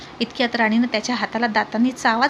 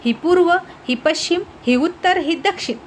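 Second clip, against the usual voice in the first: exasperated listing; 6 semitones higher than usual. A narrator's reading. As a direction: lose patience and spell it out. Exasperated husband explaining everything. (वैतागलेला नवरा मोठ्याने, ठासून दिशा सांगतो)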